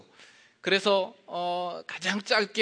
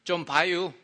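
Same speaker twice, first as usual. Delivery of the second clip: short Chungcheong dialect line; 2 semitones higher, 5 dB louder than usual. Shown as a demonstration. Pastor demonstrating Chungcheong dialect, Chungcheong speech. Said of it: "충청도는".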